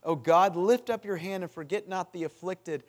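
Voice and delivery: psalm cried aloud; crying out. Acted. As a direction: call out to heaven at full voice. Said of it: "He cries out to God".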